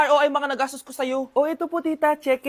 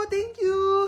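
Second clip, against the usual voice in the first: bright, higher thank you for the gift; a happy, lifted thank you; delighted thanks; 4 semitones higher than usual. Acted. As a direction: gush over the present.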